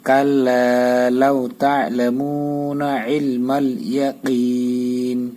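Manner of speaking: verse chanted with a slow ending; slow recitation. Shown as a demonstration. Teacher reciting the verse after spelling it out. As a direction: stretch the last word long. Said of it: "চাপাইবেন আইন".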